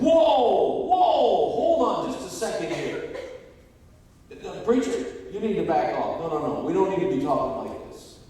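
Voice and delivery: loud, high interjection, easing slightly; imitating an alarmed deacon intervening; deacon jumping in. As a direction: cut in forcefully to halt it. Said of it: "my deacon jumped up and said".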